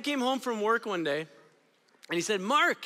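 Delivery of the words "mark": excited call. Retold or imitated. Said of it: "he was all excited".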